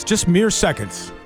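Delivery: ordinary talk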